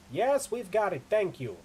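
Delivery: loud, high, cutting him short; shouting back. Acted. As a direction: shout over him to shut down the boasting. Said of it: "she shouts back, cutting him short".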